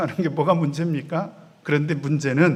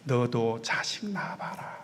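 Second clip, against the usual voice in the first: slow, unvoiced whisper of a weary parent; a hushed, knowing parental warning; parent's whisper; 5 semitones lower, 10 dB quieter, slower than usual. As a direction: breathe it like an old saying from a tired mother. Parent scolding a grown child.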